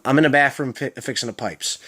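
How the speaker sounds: "the pipes" slurred to "a pipes"; Baltimore slur. Shown as a demonstration. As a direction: drop every TH in "the", leaving "uh". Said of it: "a really slurred syllable".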